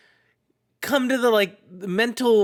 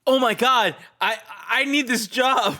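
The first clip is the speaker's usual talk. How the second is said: mock pleading; 5 semitones higher than usual. Pizza guy pleads about his job.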